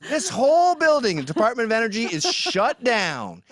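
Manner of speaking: hammed-up cheerful firing; mock official announcement. Pat Buchanan's crew shutting down the Department of Energy, mock announcement. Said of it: "Pat and you roll up".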